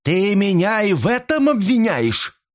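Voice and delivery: high indignant cry; outraged she is accused of murder; outraged disbelief. A narrator's reading. Mrs Creel crying out at the detective in outrage.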